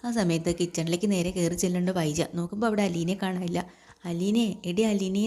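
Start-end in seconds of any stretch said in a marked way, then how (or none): 4.0-5.2 calling out. A narrator's reading. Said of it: "എന്ന് അവിടെ കിടന്ന് വിളിക്കുക".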